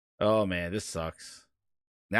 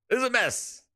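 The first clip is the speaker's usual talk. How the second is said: high pitched voice changer; 12 semitones higher than usual. Real, not acted. Voice changer repeats echoed line.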